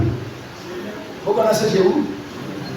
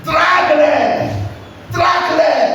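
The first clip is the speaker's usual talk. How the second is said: shouted command; 5 semitones higher, slower than usual. Acted.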